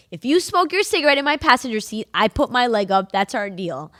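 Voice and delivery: mock stern bargain; teasing bargain. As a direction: lay down the terms with a grin. Bargaining with dad, retold.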